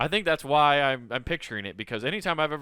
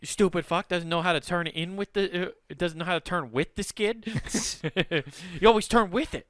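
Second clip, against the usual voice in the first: scolding Midwesterner; 4 semitones higher than usual. Acted.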